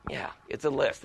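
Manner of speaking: low, very soft confirmation; quiet aside. Shown as a demonstration. Speaker confirming the definition to himself, quiet low aside. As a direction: drop right down as if musing privately.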